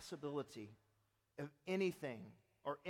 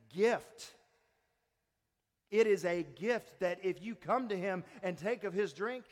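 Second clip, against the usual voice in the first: rising proclamation; 6 dB louder than usual. Real, not acted. Preacher building emphasis.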